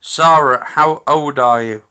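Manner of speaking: loud, projected question to a spirit; calling out to spirits. Real, not acted.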